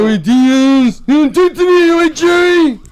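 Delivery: high, loud, strained mock voice; imitating Al Fox. Guest imitates Al Fox snapping at Joey, high and loud. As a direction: mimic a man who talks weird, high and loud. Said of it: "He talk weird".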